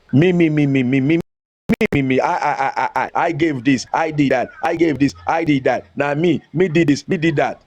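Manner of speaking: lightly voiced self-obsessed show-off chanting about himself; a hint of a mock braggart; mocking narcissist. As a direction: parody someone who only talks about himself.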